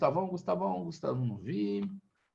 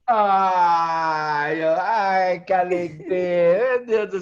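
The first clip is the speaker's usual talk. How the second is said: mock sob; 8 dB louder, much slower than usual. Teacher moved by praise of history.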